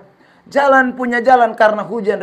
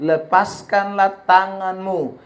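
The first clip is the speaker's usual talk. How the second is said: voice of God; much slower than usual. Retold or imitated. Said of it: "suara Tuhan itu datang kembali".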